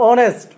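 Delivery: অনেস্ট starting on the O sound; silent-H pronunciation. Shown as a demonstration. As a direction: say "honest" as অনেস্ট, without the H. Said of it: "আমি যদি এটা উচ্চারণ করি".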